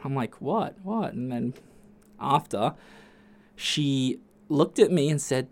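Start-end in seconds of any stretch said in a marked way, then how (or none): 0.4-1.1 whisper. Retold or imitated. Whispered reply.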